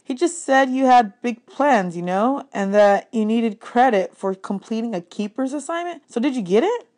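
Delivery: put-on a curious kid pressing his friend; hint of a younger boy, eager; young Percy. Percy's voice in dialogue.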